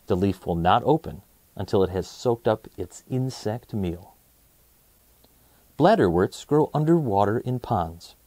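put-on calm read-aloud for kids; steady, even children's book narration; storybook narration. Reads the picture book aloud.

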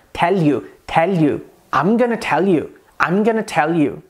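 "tell you" run together with a light Indian L; Indian English accent. Shown as a demonstration. Teacher drilling the Indian L, Indian accent. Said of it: "no inglês indiano".

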